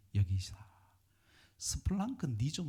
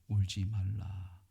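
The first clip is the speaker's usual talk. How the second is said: slow gentle command; 3 semitones lower, 3 dB louder, slower than usual. Acted. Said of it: "예수님께서 이렇게 말씀하시죠".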